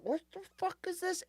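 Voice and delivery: high, fast hushed what-the-fuck; startled self. Retold or imitated. Retelling biting a rock in his beans, high startled blurt. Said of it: "And I'm like".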